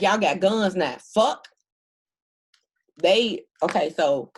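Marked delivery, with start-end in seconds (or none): 0.0-1.5 loud, higher mock exclamation; loud acted outburst. Voicing what the spirits say, a loud outburst. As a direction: blurt it out high and loud, as their words.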